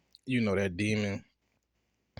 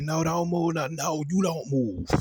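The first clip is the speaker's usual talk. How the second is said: higher, louder, urgent no-don't-move shout; frantic warning; 7 semitones higher, 5 dB louder than usual. Retold or imitated. Someone in the street yelling at the speaker not to move, loud and high. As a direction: freeze them in place, panicky. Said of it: "somebody like".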